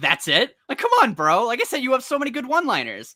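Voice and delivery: high, offended scoff in villain voice.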